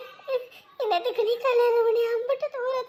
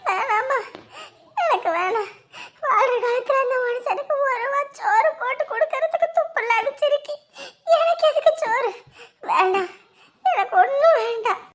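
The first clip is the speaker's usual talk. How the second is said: sobbing, pushing the food away; grieving widow refusing food while crying; crying refusal; 3 dB louder than usual. Acted. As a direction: refuse through tears, a little louder. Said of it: "இப்படி நீங்களும் அழுதுகிட்டே இருந்து".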